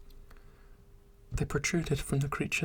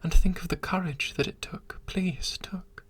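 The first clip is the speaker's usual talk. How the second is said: pleading creature. Acted. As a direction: beg her to understand, breathless with longing. Creature proposing, begging desperately.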